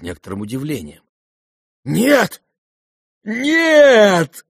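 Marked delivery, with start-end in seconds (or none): 1.8-4.4 loud, high cries of joy; joyful cry. Acted. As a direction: shout it out in delight. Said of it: "вскричал Рогожин".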